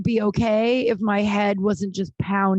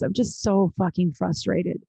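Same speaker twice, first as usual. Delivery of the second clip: slow, frustrated admission; real frustration. Real, not acted. Confessing to her listeners, slow and frustrated. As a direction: let the frustration drag out slowly. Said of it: "I'm so frustrated, guys".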